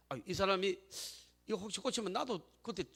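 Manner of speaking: softly voiced wondering to oneself; hesitant inner musing. Follower privately wondering whether healing might reach them too, hesitant hushed musing.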